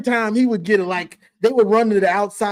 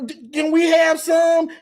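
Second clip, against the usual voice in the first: mock begging; 5 semitones higher than usual. Ohio State begging.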